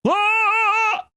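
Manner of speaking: very high, pinched, squeezed throat; exaggerated constricted throat; overdone epiglottis closure. Shown as a demonstration. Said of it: "That's what it sounds like".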